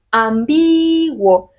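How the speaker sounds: Ambiguo estirado muy despacio, sílaba por sílaba; slow demo word. Shown as a demonstration. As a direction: draw Ambiguo out slowly to show the syllables. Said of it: "Dónde está la fuerza en esta palabra". (Ambiguo muy lento, de demostración)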